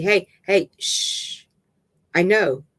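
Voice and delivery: hushing with a long shh; calming. A narrator's reading. Dave settling River on the bed, calming hush. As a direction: soothe someone getting hysterical. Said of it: "as he calms her down".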